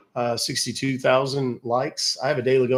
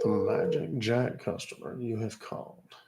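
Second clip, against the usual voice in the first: recorded message voice; 8 dB quieter than usual. Retold or imitated. Mimicking an automated phone message.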